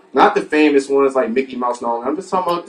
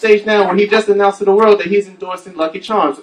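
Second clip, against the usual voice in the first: mock nervous TV reporter; field reporter; 4 semitones higher than usual. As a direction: sound caught off guard on live TV. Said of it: "he's like this".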